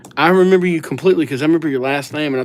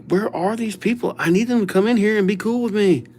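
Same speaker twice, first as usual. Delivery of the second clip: retold impatience; 7 semitones higher, faster than usual. Retold impatient wait for friends.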